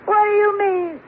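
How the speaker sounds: hurt, half-crying question; tearful protest. Acted. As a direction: ask it through tears, wounded.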